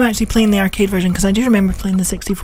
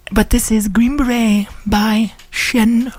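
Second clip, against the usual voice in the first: posh radio voice; much slower than usual. Acted. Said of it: "doing the posh voices on the radio".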